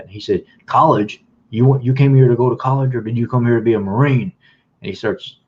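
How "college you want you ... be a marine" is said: recruiter yelling. Retold or imitated. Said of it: "raising his voice and yelling at me".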